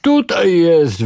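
high, slow, sing-song call; children shouting to the pursuers; children yelling. A narrator's reading. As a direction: call it out like a kid at play. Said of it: "wrzeszczały dzieciaki".

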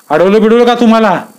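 high, urgent question; lightly voiced worried neighbour; anxious villager asking. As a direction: ask Pant if he was stopped.

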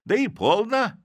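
high, loud put-on voice, defiant; stubborn disguised voice. A narrator's reading. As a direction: insist in the fake voice. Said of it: "тем же голосом".

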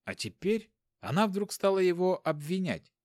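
ordinary delivery

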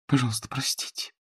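soft breathy whisper, no voice; whispered apology. A narrator's reading. Jen whispers an apology to Frederick in the dark, hushed. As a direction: whisper it so nobody hears.

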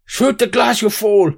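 villain bellowing orders, pitched high; villain's shout. Acted. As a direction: yell it at a useless henchman. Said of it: "you hear him shout".

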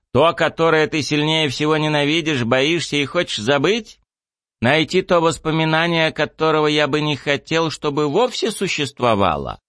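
high, probing pony voice; a lightly voiced pony pressing hard; cold hissing layered whisper. Pony character questioning narrator.

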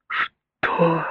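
high shocked gasp; mother gasping in alarm; gasped what. A narrator's reading. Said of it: "ахнула мама".

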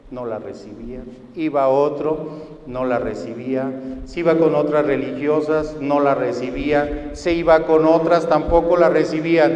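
rising preacher's crescendo on the refrain. Real, not acted. Preacher builds repeated refrain.

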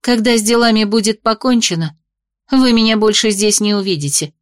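snapping back, irritated. Acted. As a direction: blurt it out in annoyance. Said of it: "раздражённо вырвалось у меня".

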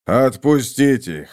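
slow, rasped-out order; hoarse command. A narrator's reading. Lord ordering his men to release captives, hoarse croak. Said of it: "прохрипел лорд".

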